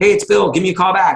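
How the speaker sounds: easygoing, friendly tone. Acting out a call-back message meant to sound like a friend, mock-friendly casual tone. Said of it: "when it sounds like a friend".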